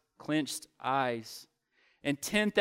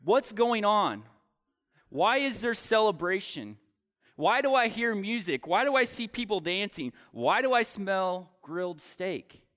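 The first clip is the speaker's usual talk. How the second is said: mock yell; 5 semitones higher than usual. Older son yelling questions to the servant, mild mock shout. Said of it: "he yells to the servant".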